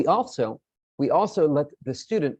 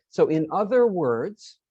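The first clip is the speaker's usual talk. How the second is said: slow model phrase; 3 semitones higher, slower than usual. Shown as a demonstration. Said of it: "we can repeat by saying".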